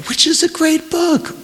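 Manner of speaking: high mocking grunt of his reply; grunting imitation. A narrator's reading. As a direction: mimic his surly answer. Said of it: "Kate grunted, imitating the way".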